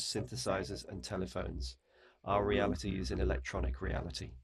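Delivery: lightly done robot voice. Pretend. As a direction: recite like a mild robot. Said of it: "You have to do it in a robot voice".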